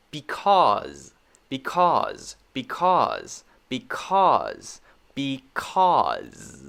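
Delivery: "because" ending on a light buzzed Z; "because" with a short voiced Z at the end; clear final Z. Shown as a demonstration. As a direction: say "because" as bee-KAWZ, Z audible. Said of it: "There's that Z sound there".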